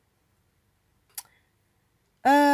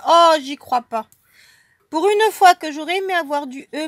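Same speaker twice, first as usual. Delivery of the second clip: disbelief; 3 semitones higher, 5 dB louder than usual. Real, not acted. The unwanted letter appears.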